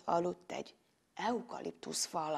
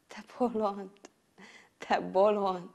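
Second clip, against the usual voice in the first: gentle, understated tenderness; a fond reproach, spoken with pauses; kindly. Acted. Monster to the man who attacked it, kindly. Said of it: "mondta kedvesen".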